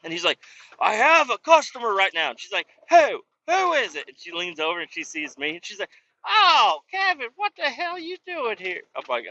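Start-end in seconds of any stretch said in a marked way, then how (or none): 0.8-2.3 high, loud mock protest; put-on flustered objection; imitated arguing colleague. Acts colleague arguing back. 2.9-4.1 high-pitched mock holler; screechy demand in her put-on voice; imitated yelling. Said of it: "I hear her in there screaming and yelling". 6.2-8.8 very high put-on coworker voice; imitated hollered greeting. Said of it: "I hear her in there screaming and yelling".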